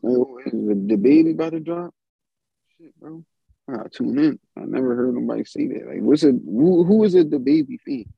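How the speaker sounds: high, excited fake fan voice; hammed-up eager fan; mock hype fan.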